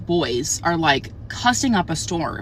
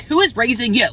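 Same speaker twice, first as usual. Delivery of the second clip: exasperated retort; 5 semitones higher, 4 dB louder than usual. Retold or imitated. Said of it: "I was just like".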